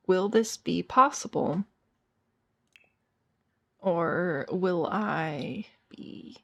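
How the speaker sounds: slow, theatrical pleading; drawn-out mock plea. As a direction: drag each phrase out with playful despair. Drawn-out mock plea over cabinets.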